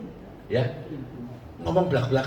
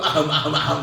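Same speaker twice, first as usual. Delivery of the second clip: repeated throat-clearing noises, imitated; mock coughing ahem; 5 dB louder than usual. Visitor told the husband was only coughing, mock ahem. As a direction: fake a string of ahems. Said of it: "watuk tau".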